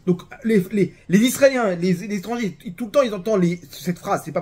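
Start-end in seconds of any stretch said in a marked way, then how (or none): none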